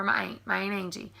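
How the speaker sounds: "aunt" said as "aint"; aunt rhymed with paint, running into Angie; Southern aunt. Shown as a demonstration. Niece talking to her aunt, Southern "aint". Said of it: "So if I'm talking to her".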